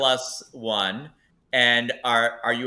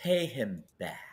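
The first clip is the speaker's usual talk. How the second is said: soft, disembodied half-whisper; 8 dB quieter than usual. Game master voicing that same voice heard again, half-whisper. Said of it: "you hear that same voice whisper".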